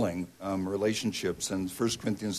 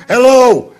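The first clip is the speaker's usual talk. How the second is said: huge, much higher, much louder roared hello; 14 semitones higher, 18 dB louder than usual. Retold or imitated. Exasperated stranger answering the phone with a roar. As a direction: bellow it down the line. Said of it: "there's a roar on the other end".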